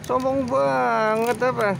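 drawn-out mock scold of a stuck-up cat; teasing cat. Real, not acted.

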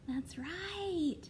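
normal talking voice

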